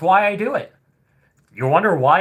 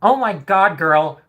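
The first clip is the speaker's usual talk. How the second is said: mock dramatic hater; 3 semitones higher than usual. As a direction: overplay the shocked insulted girl. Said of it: "Or are they more".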